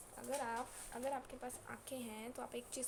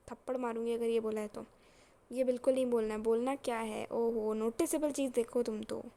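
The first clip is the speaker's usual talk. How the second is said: raised-voice teasing telling-off; loud scolding; 8 dB louder than usual. Real, not acted. Teacher threatening a slap over a wrong answer, loud scolding. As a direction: scold the class loudly for the silly answer.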